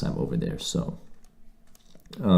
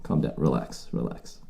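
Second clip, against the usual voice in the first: calming the mugger; 4 semitones lower, 10 dB quieter than usual. Retold or imitated. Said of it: "You're just like".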